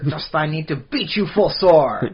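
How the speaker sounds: slow, projected faux old-English threat; mock medieval actor. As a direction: play a ren-faire actor threatening a thief. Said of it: "throwing your voice because you're an actor".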